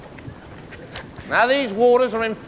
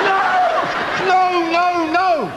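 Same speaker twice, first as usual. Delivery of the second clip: shouting no; 8 semitones higher, much slower than usual. Acted. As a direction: yell no to stop him. Captain stops the sailor.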